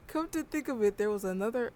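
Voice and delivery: reading steadily, laughter held back; composed professor voice. Acted. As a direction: regain composure and read it. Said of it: "I can't stop laughing".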